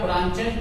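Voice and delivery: ब्रांचेज, the CH a true "ch" sound, not "k"; ch said as "cha". Shown as a demonstration. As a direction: say ब्रांचेज with a "ch" as in chair. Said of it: "pronunciation यदि चा है".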